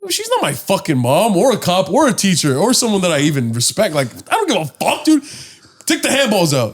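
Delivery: retold defiance.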